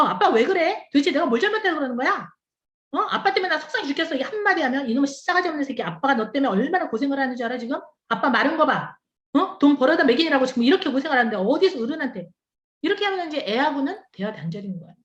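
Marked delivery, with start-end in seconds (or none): 0.0-4.1 put-on rising, quick, upset child talking back; child's protest. 4.9-12.3 fast, mock-angry dad's rant; scolding father.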